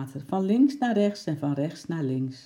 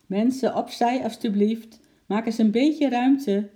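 loud, higher policeman clearing a crowd; calling to a crowd; 7 semitones higher, 6 dB louder than usual. Acted. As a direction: call out to move the onlookers aside.

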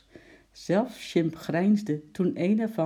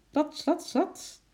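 quick scamper; 12 semitones higher, slower than usual. A narrator's reading.

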